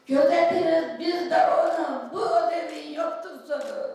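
Gözetiriz called out loud and high; proud shout. Acted. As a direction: proclaim it to the hall. First take, proclaimed. (Gözetiriz yüksek sesle haykırarak)

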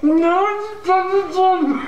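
talking through a stuffed mouth; cheeks stuffed full. Real, not acted. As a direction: mouth crammed with marshmallows, slow. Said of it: "Não tá nem aguentando abrir a boca, tá comendo o negócio aí".

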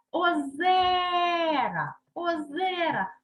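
озера with a very long, high «е»; stressed middle syllable. Shown as a demonstration. Teacher puts the vowel under stress, озера with drawn-out «е». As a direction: stretch the second syllable of озера slowly. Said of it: "під наголос ставимо".

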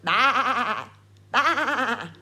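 a lightly bleated baa; mild sheep bleat; sheep noise. Shown as a demonstration. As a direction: bleat it for the children. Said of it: "what does a sheep say".

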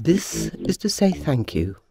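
low, gentle thanks. Acted. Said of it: "he said gently".

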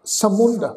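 ਸਮੁੰਦ as sa-mund, short nasal u; careful demonstration of ਸਮੁੰਦ as samund. Shown as a demonstration. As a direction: end ਸਮੁੰਦ on -und, no final r. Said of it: "ਔਂਕੜ ਉੱਪਰ ਟਿੱਪੀ ਲਗਾ ਕੇ".

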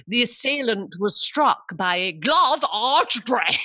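slow posh news read, broad a in "glass"; posh newsreader voice. Retold or imitated. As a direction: read it like a posh late-night anchor, slowly. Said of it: "I was in my posh voice".

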